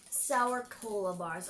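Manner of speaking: slow, stretched out reading. Shown as a demonstration. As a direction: draw out each word slowly. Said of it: "repeats it slowly".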